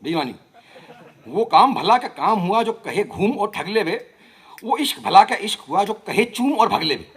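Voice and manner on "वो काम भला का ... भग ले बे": rhythmic, lilting verse recitation; poetry recital. Acted. Poet giving a playful reply to Faiz, rhythmic recital. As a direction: recite each line to a regular beat.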